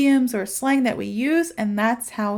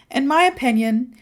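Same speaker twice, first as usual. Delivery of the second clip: ordinary delivery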